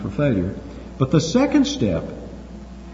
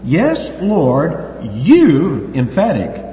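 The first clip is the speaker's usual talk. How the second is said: slow, higher, earnest plea; voicing Peter; 4 semitones higher, much slower than usual. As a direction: Peter pleading, drawing out "you". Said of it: "He said to him".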